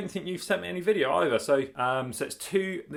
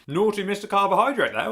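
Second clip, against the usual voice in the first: teasing voice; 6 semitones higher, 5 dB louder than usual. Pretend. Teasing voice to the bread.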